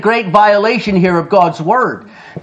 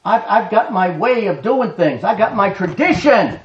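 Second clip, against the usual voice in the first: a hint of a smug churchgoer, lower and softer; mock religious person; 3 semitones lower, 4 dB quieter than usual. Preacher mimics a religious person brushing off witnessing, softly. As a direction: lightly voice the self-satisfied believer. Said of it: "they will always point to their religion and say".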